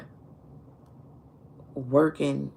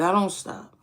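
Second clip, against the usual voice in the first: whispered repeat; 4 semitones higher than usual. Real, not acted. Telling listeners about his persistence, whispered resolve. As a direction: drop to a breathy whisper on the repeat. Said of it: "See, the thing about me is".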